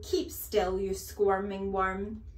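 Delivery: loud, slow-ending headmistress scolding; angry order. Acted. Headmistress scolding wriggling boy, loud and nasty. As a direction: draw out the insult with menace.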